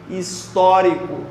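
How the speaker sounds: his-TÓ-ri-co, stretched slowly with TÓ stressed; slow stressed syllables. Shown as a demonstration. Teacher drilling the stress of histórico, slowly. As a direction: spell out histórico slowly, leaning on TÓ. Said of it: "é proparoxítona".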